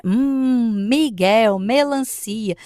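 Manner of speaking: "Hum" as a long hummed M, echoed in "Miguel" and "melancia"; pointing out sound. Shown as a demonstration. Pointing out the M to a child, hummed "Hum". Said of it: "você pontua".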